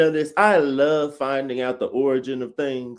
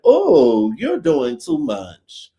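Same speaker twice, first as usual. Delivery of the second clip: mock diva scoff; 5 semitones lower, 5 dB louder, much slower than usual.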